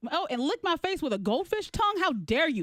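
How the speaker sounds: retold indignant dressing-down; mock outrage at a small offender; sharp scolding. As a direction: tell off a child, affronted. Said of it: "Very sharp".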